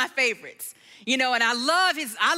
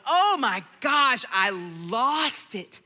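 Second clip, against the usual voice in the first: normal talking voice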